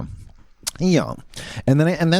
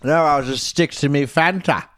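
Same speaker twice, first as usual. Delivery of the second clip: put-on Irish accent. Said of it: "I go from leprechaun".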